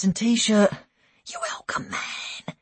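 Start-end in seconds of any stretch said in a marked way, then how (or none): 1.3-1.9 hushed whisper. A narrator's reading. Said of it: "he whispered". 1.9-2.6 hushed whisper. A narrator's reading. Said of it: "he whispered".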